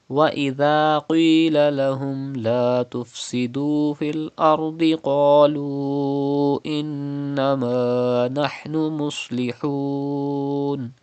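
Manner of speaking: quick tajweed recitation of the ayat; Quran recitation. Acted.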